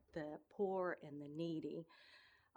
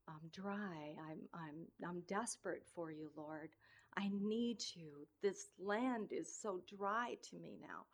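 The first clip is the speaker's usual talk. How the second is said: soft desperate prayer; 4 semitones lower, 5 dB quieter than usual. Pretend.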